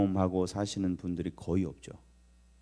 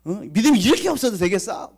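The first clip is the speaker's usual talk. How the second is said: scolding Jesus; 8 semitones higher, 4 dB louder than usual. Retold or imitated. Jesus scolding disciples in storm.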